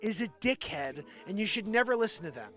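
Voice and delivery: real anger building to a high, loud pitch; angry rant. Real, not acted. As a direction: vent real indignation, punching words hard. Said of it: "I'm sorry I'm getting angry".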